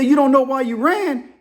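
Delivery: high-pitched disbelieving question; astonished, voice jumping up; incredulous. Retold or imitated. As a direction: play the boss who can't believe it. Boss in disbelief at caller.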